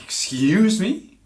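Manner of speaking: stretched, loud, high rising disbelief; very dramatic. Retold or imitated. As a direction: drawl it upward in mock outrage. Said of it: "say it in a very dramatic way".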